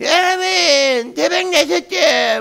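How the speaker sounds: squeaky, very high, loud mocking mimicry. Mimicking a stock caller he always imitates, mocking imitation of someone. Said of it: "내가 맨날 목소리 흉내내는 있잖아요".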